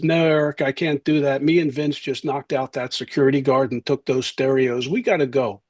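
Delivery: lightly mimicked Philly tough guy; casual street-guy talk with a Philly lilt; Philly accent. Petty crook begging off pizza with a friend, light Philly accent. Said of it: "he had the Philly accent".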